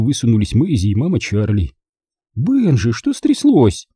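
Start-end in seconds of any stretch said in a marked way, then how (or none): 2.3-3.9 high, worried woman's question; mum's startled concern; concerned mother. A narrator's reading. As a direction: ask anxiously, rising high. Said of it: "спросила мама".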